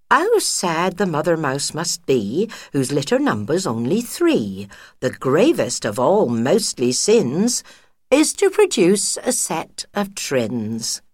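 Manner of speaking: lightly sung-song rhyme recital; recited nursery rhyme. Acted. Widow reciting her granny's rhyme to a friend, lilting.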